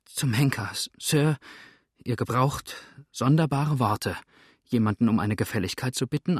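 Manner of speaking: mild nervous grumbling; a touch of flustered irritation; trembling, feigning grumpiness. Acted. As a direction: cover unease with put-on crossness. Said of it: "sie sagte mit zitternder Stimme, die sie nur noch durch angenommene Verdrießlichkeit zu verdecken suchte".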